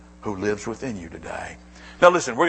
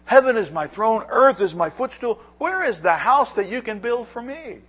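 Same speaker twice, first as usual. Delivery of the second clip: "Heaven is my throne" called out higher and louder; proclaimed; 9 semitones higher, 4 dB louder than usual. Shown as a demonstration. Preacher repeating God's words to the congregation, proclaiming loudly. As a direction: boom it out as God's own voice. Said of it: "Speaking to Isaiah and the people of Israel".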